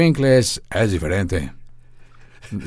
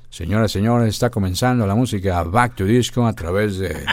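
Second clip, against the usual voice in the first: radio announcer; 5 dB louder than usual. Shown as a demonstration. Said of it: "sonaba de esta manera".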